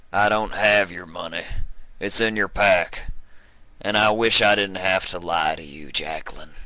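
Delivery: lightly voiced regretful old cowboy; a hint of gruff old stallion; Arkansas old stallion. Arkansas calls back, regretful.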